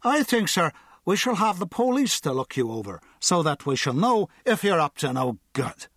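mock-official drunk threatening police; pompous drunk. A narrator's reading. Drunk threatens to call police on the guard, pompous. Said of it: "the drunk said".

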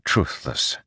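Truthless breathed as an unvoiced whisper; whispered echo. A narrator's reading. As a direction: whisper Truthless back, shaken. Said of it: "Szeth caught the word".

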